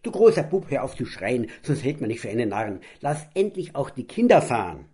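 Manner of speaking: mother scolding her husband, reproachful and loud. Acted. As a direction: tell off the big boy. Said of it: "Vorwurfsvoll griff Mama ein".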